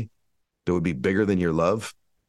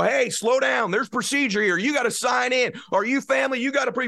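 mock gatekeeper. Hospital staff blocking entry.

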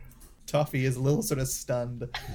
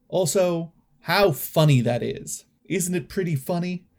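lightly regal, a bit higher and grand; 4 semitones higher, 4 dB louder than usual. Acted. Toffee addressing the party crowd, mildly regal. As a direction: address the crowd like minor royalty. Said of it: "in a regal tone".

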